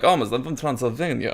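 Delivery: mock Transylvanian accent; thick Transylvanian accent. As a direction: imitate an overdone Transylvanian accent. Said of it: "thick, almost like Angelina Jolie in, uh, Alexander".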